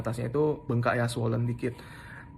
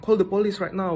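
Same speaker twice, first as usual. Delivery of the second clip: higher urgent order; retold urgent plea, pitched up; urgent demand; 6 semitones higher than usual. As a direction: press them to call the police now. Urging call to police.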